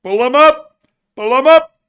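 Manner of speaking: very high, loud squealing chant; excited creature voice. Pretend. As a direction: squeal it like a cartoon critter. Calling for the character.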